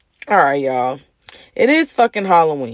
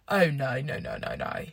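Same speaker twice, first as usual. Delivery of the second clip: mock horrified no; 6 semitones lower, 11 dB quieter than usual. Royal family reacting in disbelief.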